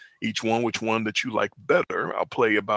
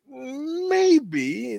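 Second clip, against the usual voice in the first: high falsetto. Retold or imitated. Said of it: "I felt like that".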